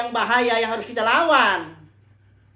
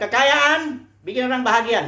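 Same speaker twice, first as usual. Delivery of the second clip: mock-confident claim, pitched up, with Kekayaan lifted; the deceiver's lie; 4 semitones higher than usual. Preacher quoting the devil's lie to his flock in a mock-confident voice. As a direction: sell the lie like it's gospel. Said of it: "dia bilang".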